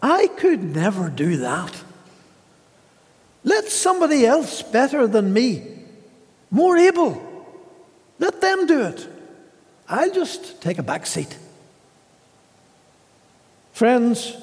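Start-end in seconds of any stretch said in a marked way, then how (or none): 0.0-11.4 높아졌다 낮아지는 핑계 섞인 흉내; mock cowardly excuse. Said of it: "we might say".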